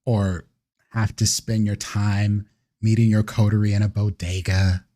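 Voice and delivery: a hint of disdainful grandeur; persuasive vampire elder.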